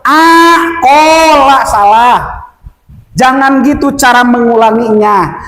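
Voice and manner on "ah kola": "ah, kola" restarted on a detached "ah"; wrong restart. Shown as a demonstration. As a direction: begin afresh on "ah", then draw out "kola". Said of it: "biasanya saya sering dengar".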